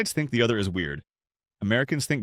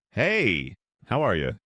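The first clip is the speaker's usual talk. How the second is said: bright, beaming hello; mild mock cheerful American hello; big-energy American greeting; slower than usual. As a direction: greet like you're thrilled to see them. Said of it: "Big energy".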